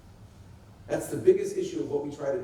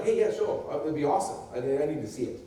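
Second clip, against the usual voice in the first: casual doubt. Shown as a demonstration. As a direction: shrug it off lightly, easy to convince. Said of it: "One's not like".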